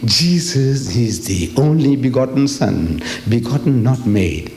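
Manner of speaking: slow, deliberate creed quotation; reciting catechism. Retold or imitated. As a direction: spell the doctrine out slowly, falling at the end. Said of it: "When the Christians say".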